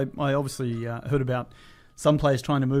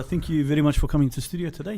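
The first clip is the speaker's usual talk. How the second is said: put-on South African accent; 2 semitones higher than usual. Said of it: "show me your brilliant South African accent".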